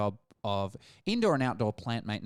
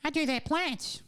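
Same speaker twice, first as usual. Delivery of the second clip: high-pitched imitation of contempt; mock contempt in a high voice; contemptuous. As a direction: mimic someone sneering, pitched way up. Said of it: "with contempt in your voice".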